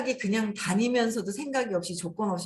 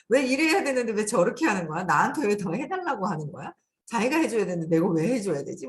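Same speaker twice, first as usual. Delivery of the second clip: louder, indignant inner complaint; mild retold anger; 4 dB louder than usual. Speaker retelling resentment at being expected to help, mildly angry. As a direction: voice a mildly riled-up grievance. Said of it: "막 부르르 화가 나요".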